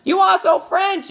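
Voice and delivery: high, loud hammed-up French voice, laughing through it; teasing Sean with a silly French accent; mock French accent. Teasing her friend Sean, hammed-up French voice. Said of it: "I go".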